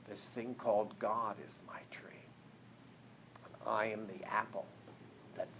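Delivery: hushed inner voice. Retold or imitated. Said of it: "But I say, "Hmm".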